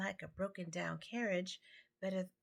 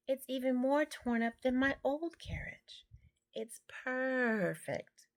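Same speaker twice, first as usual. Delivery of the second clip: higher and louder, amazed and thrilled; delighted exclaim; 7 semitones higher, 4 dB louder than usual. A narrator's reading. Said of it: "Scat Cat exclaimed".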